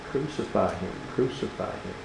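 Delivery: hushed retold scream. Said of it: "what were they all screaming".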